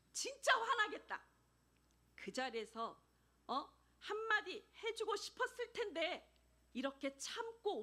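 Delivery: 아내 편 들며 버럭하는 남편; rising outrage on her behalf; indignant husband. Retold or imitated. Husband sympathizing, getting angry. (아내 대신 화내는 남편)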